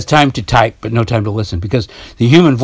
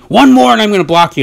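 mock threat; 8 semitones higher, 5 dB louder, faster than usual. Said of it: "told me".

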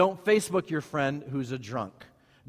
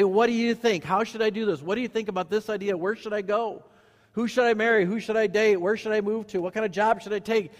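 rapid-fire list of questions in a raised pitch; eager questioning; 5 semitones higher than usual. Acted. Pastor modeling questions for church to ask, eager questioning. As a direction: fire off each question higher, as if asking around.

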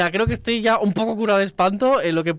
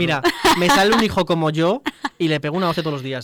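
laughing; 5 dB louder than usual. Real, not acted. Joking about hitting own child.

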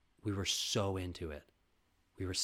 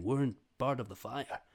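normal talking voice

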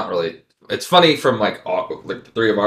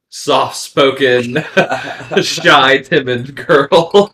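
mock shy girl; 6 semitones higher, 10 dB louder, much slower than usual. Mocking soft-spoken girl.

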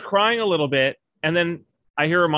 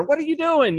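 higher-pitched mock snapping at a child; retold snap; 11 semitones higher than usual. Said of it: "snaps at her".

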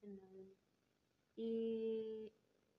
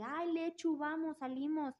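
mock bubbly friend; 4 semitones higher, 3 dB louder than usual. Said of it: "tal vez no somos así de".

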